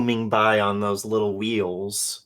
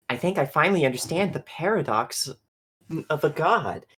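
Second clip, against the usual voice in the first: a touch higher, measured robot voice; 7 semitones higher than usual. Acted. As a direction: lecture like a calm android. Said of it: "He's like".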